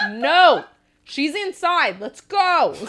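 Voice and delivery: high, exasperated hurry-up call; mock urgent call. Urgently hailing the ambulance crew, retold.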